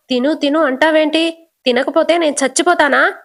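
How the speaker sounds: mildly angry retort. Acted. Deepa refusing to eat, mild angry outburst. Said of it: "కోపంగా".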